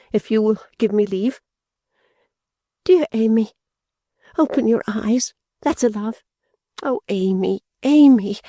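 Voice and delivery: high, distressed, half-weeping pleading; tearful fretful young lady. A narrator's reading. Fanny reviving fainted Amy, high and tearful. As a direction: fuss over her sister through tears. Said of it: "bursting into tears".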